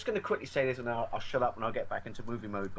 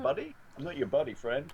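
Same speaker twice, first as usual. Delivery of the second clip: Canadian South Park quote; 4 semitones higher than usual. Retold or imitated. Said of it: "there's a scene where he goes".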